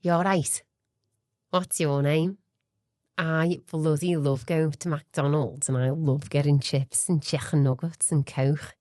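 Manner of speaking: slow, put-on Liverpool accent; broad Scouse, relishing each item. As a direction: do a Liverpudlian chatting away. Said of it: "he's a Scouser".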